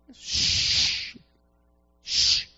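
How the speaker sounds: unvoiced shushing; shushing a noisy beggar; hushing. Crowd hushing him.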